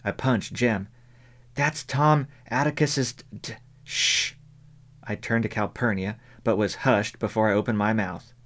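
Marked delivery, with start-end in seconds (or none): 1.5-4.3 lightly voiced excited child cut short; a child blurting, then hushing; a hint of an eager child. A narrator's reading.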